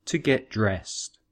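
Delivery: "To get dressed" said slowly and evenly; slow teacher model of "To get dressed"; slow model phrase. Shown as a demonstration.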